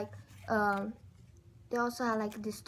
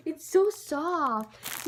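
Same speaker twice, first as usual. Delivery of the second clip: slow, drawn-out and a bit louder; swooning delight; 4 semitones higher, 4 dB louder, much slower than usual. Real, not acted. Squishing the soft toy.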